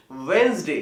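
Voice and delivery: वेंसडे as WENZ-day, first d silent; correct pronunciation. Shown as a demonstration. Teacher correcting students, वेंसडे without the first d. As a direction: squeeze वेंसडे into two syllables. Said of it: "क्या होना चाहिए?".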